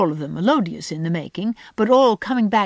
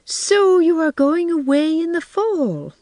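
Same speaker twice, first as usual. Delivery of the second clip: wistful; 11 semitones higher, 6 dB louder than usual. A narrator's reading. Miss Lavendar to Anne, sorry she is leaving: wistful and slow. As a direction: sigh it out as if already missing her. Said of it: "said Miss Lavendar wistfully".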